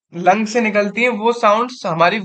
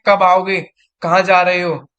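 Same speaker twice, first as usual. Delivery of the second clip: angry mother; 2 semitones lower, 3 dB louder than usual. Shown as a demonstration. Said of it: "mummy मुझसे गुस्से में कहती है".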